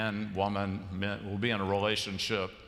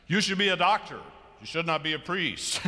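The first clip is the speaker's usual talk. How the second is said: mother yelling; 5 semitones higher than usual. Retold or imitated. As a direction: retell the mother's upset insistence, rising to a shout. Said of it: "She got very upset with him and yelled and screamed".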